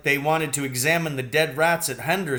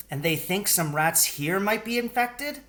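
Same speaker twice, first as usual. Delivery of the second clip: a touch of worry, higher; mild worry; 9 semitones higher than usual. A narrator's reading. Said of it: "Missus Fitzgibbon sounded worried".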